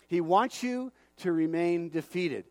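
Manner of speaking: slow, deliberate delivery, every word laid down; slow and weighty. Shown as a demonstration. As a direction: let it sink in slowly. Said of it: "I'm gonna say it again".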